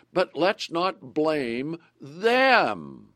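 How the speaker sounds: drawn out slowly and deliberately; slow it right down to make the point; measured slow caution; slow warning. Acted. Preacher warns congregation.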